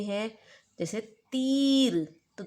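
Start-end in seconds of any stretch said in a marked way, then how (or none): 1.3-2.0 तीर with ती drawn out and stressed; तीर, long stressed ती. Shown as a demonstration. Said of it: "ती पे मैंने ज़्यादा जोर डाला".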